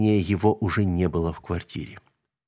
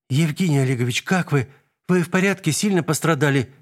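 fussing; 6 semitones higher than usual. A narrator's reading. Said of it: "суетилась Вика".

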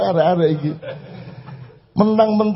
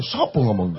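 much lower, softer voice with a laugh; voicing God; 8 semitones lower, 5 dB quieter than usual. God asks who said it, low and soft. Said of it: "Gusti Allah ngene".

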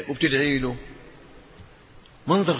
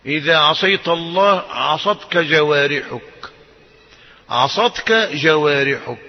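each word weighed slowly; slow emphatic saying; slower than usual. Acted. Preacher warning the congregation, slow and weighty. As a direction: lay it down slow and heavy like a verdict.

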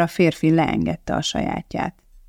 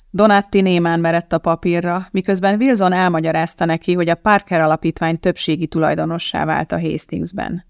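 plain reading voice

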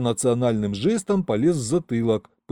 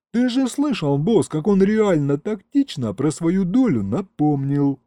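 high-pitched eager henchman; excited demon sidekick; 5 semitones higher than usual. Acted. Demon explaining to his boss about the share, high and excited.

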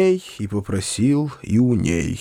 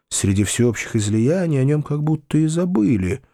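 ordinary delivery, nothing marked

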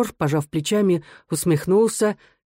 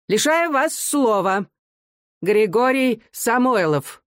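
чуть выше и медленно, по-стариковски; сухо обрывает подсудимого; строгий судья; 6 semitones higher, slower than usual. A narrator's reading. Старичок-судья лишает слова. (судья сухо лишает слова)

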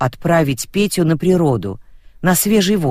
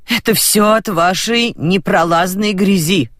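raised, higher accusing voice; shouting down the phone; 5 semitones higher than usual. Acted. Roza yells at the other grandmother on the phone. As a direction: yell the blame into the phone. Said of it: "кричала в трубку баба Роза".

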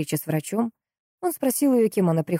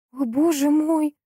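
high, slow cry of dismay; much higher and drawn out, shocked; dismayed exclamation; 10 semitones higher, slower than usual. A narrator's reading. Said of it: "воскликнула Анна". (потрясённый возглас, высоко и медленно)

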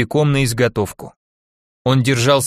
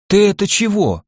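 surprised; 7 semitones higher than usual. Acted. Glafira surprised by crumpled note.

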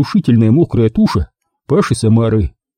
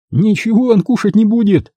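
grinning, higher menace; smirking threat; 11 semitones higher than usual. A narrator's reading. Max smirking as he threatens the diver. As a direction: promise it with a smirk. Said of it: "ухмыльнувшись, пообещал Макс".

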